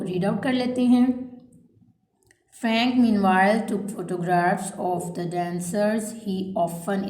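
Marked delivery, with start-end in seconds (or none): 2.6-7.1 slow, spaced-out dictation read; measured classroom dictation pace. Shown as a demonstration. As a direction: read each phrase slowly so students can write it down. Teacher reads dictation aloud.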